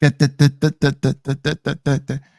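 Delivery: stuttering, repeated da syllables, da-da-da babble. Mocking someone's voice by imitating her: mocking imitation of stuttering. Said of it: "Bitch sound like she's always stuttering".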